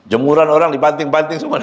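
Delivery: amused, breaking into a laugh. Real, not acted. Preacher joking to listeners about angry people, laughing. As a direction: let a chuckle spill into the words.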